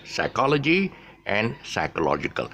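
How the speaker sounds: teacher contrasting psychology and psychological by stressed syllable. Shown as a demonstration. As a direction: shift the stress from "chol" to "log" between psychology and psychological. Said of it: "to put more emphasis on it".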